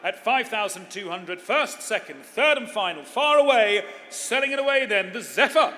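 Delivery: building to a loud final call; auctioneer. Acted. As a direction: drive it home and sell it. Auctioneer closing the sale.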